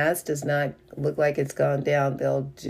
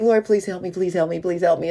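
breathless, pleading prayer; out of breath; faster than usual. Retold or imitated. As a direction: pray while gasping from running. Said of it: "I'm out of breath and I'm exhausted".

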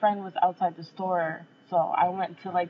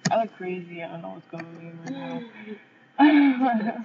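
stoned. Real, not acted. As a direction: talk like the edible kicked in. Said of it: "edibles kicking in".

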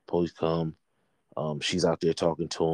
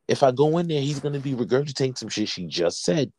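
higher-pitched, insistent pleading; retold exasperated complaint; 5 semitones higher than usual. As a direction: press the point, pitched up in exasperation. Retold exasperated plea to cop.

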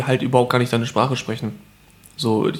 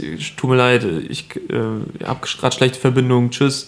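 mock fake excuse; slower than usual. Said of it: "wenn du jetzt sagst".

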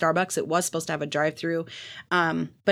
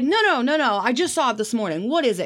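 uncle protesting; 5 semitones higher than usual. Retold or imitated. Uncle insists he just saw the name, high mock protest. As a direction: imitate the uncle refusing to give up. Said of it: "And he's like".

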